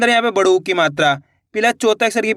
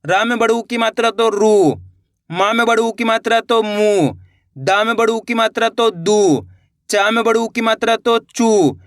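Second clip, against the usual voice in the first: chanted drill, pupils repeat; steady classroom call to repeat; slow recitation. Shown as a demonstration. Teacher leading pupils in repetition. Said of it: "मेरे साथ साथ आप इसका उच्चारण करिए".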